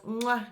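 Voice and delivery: smacking "mwah" kiss; blown kiss. Real, not acted. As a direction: send an appreciative air kiss. Blows a kiss to the band.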